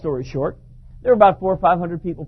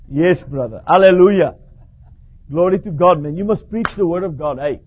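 hearty hallelujah greeting; 6 dB louder than usual. Retold or imitated.

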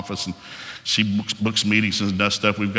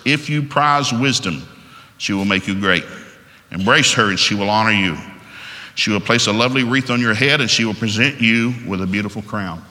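scripture reading. Acted. Reads last verses.

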